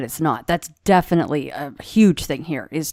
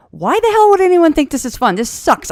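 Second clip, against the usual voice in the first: high, loud mock panic; pitched-up frantic complaint; paranoid outburst; 9 semitones higher, 3 dB louder than usual. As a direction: squeal it like a paranoid wreck. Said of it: "I was so paranoid that I'm like".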